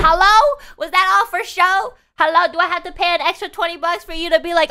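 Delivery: high, loud, outraged ranting; indignant rant. Retold or imitated. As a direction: let the indignation climb to a shrieking hello. Indignant imagined rant at stripper.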